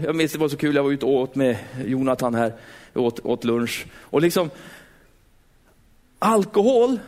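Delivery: ordinary talk, nothing marked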